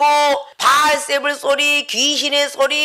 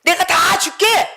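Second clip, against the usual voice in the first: tempting Satan; 3 semitones higher than usual. Acted. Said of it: "천하만국을 보여주면서".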